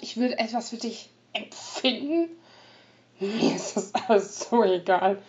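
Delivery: loud, cold, taunting rogue; feigned coldness. Acted. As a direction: play the heartless traitor. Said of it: "gab er gespielt von sich".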